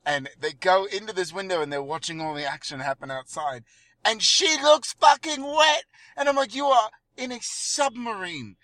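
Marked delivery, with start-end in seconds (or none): 4.0-8.6 incredulous outburst. Real, not acted. Indignant rant at wet actress.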